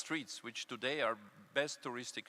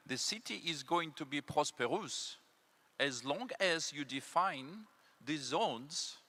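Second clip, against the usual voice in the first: put-on a light French accent, slightly raised and unhurried; Le Corbusier French accent; 3 semitones higher than usual. Quoting the famous French architect, light French accent. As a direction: quote him with a hint of French accent. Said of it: "I hope you like my French accent".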